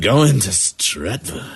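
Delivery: train announcement. Retold or imitated.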